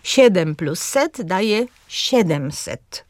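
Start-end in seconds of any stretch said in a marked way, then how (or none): 1.9-3.1 „siedemset” z akcentem na SIE; akcent na trzecią sylabę. Shown as a demonstration. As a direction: powoli i mocno od początku: „SIEdemset”. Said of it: "również z akcentem na trzecią sylabę". (wzorcowe, powolne „siedemset”, pierwsza sylaba akcentowana)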